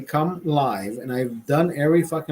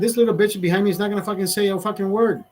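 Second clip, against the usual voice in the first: higher, fast heated rant; retold angry rant; 5 semitones higher, faster than usual. Telling his friend off in line, heated and fast. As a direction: fire it off like you mean it.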